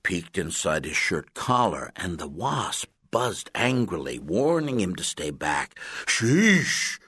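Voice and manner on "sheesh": loud, high burst of surprise; startled exclamation. A narrator's reading. Coach startled by the angry wasp under the collar, loud surprised cry. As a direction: jump back from the buzzing wasp. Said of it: "Coach exclaimed".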